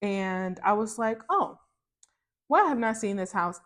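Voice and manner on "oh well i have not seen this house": pitched-up "Oh", then offhand; a touch of surprise at a new find; light surprise; mild surprise. Retold or imitated.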